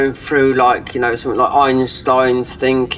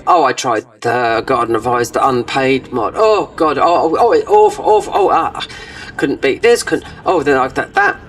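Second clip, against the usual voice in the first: exaggerated whining. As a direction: ham up a frustrated gamer moaning. Mocking a streamer's whiny reaction.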